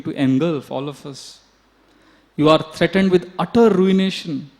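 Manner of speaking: a servant berating her mistress in alarm; urgent retold scolding; harsh scolding. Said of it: "she started speaking heavy things".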